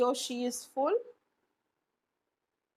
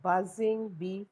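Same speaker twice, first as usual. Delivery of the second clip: buzzing bee; slower than usual. Shown as a demonstration.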